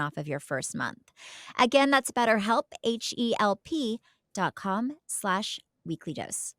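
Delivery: cheerful sponsor plug; ad read. Acted. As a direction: pitch the offer to listeners.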